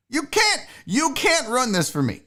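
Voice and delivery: high-pitched mock defiance; good mood. Host in a good mood defying anyone to ruin it, playful defiance. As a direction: start high, insisting playfully. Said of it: "my emotions are volatile".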